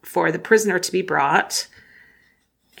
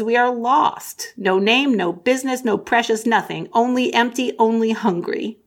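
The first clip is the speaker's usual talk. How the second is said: a hint of a lost, hungry Gollum pleading; forlorn Gollum; 4 semitones higher than usual. Gollum answering Faramir.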